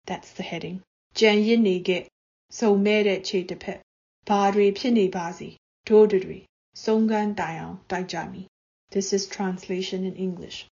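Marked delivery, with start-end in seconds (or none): 1.1-8.5 paced, declaiming verse, a little louder; poem recitation in Burmese. Acted. Poet reciting her protest poem in Burmese to listeners, declaimed. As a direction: recite each line as its own beat.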